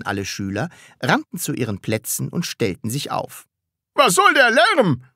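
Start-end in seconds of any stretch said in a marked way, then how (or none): 3.9-5.0 high, loud, harsh demand; brusque. A narrator's reading. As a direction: snap loudly at the noisy class. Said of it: "fragte er barsch". (barsch und laut)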